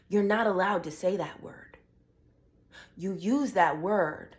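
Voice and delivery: a sudden hushed whisper, all breath. Real, not acted. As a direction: drop to a whisper to drive it home. Rant drops to a whisper.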